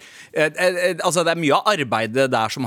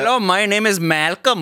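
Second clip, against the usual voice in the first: put-on Indian scam caller accent; 5 semitones higher, 3 dB louder than usual.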